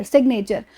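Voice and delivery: "सिग्नेचर" run together with the G heard; parts joined. Shown as a demonstration. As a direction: join sig and nature in "सिग्नेचर". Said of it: "इतने को एक साथ pronounce".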